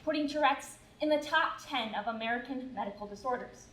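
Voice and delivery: measured, even narrator read; formal show introduction. A narrator's reading. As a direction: introduce the story like a documentary.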